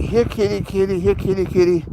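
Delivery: high, sing-song "here kitty" call; mock firemen calling. Mocking the firemen calling up the tree, high and sing-song. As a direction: imitate the firemen coaxing a cat down. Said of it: "And they're like".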